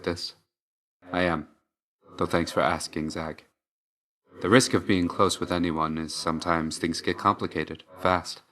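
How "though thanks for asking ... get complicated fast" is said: hushed, reserved sincerity; quiet confiding. Acted. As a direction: confide it softly to a close friend. Quiet personal confession to Zag.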